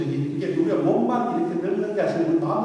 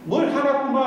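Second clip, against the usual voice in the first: higher, louder teasing accusation; mock insistence; 8 semitones higher, 4 dB louder than usual. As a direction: insist he is angry, pitched up. Wife insisting in marital spat. (아내가 남편에게 화났다고 우기듯 높고 큰 목소리로)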